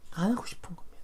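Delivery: a hushed whisper. Real, not acted. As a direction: whisper the point to the congregation.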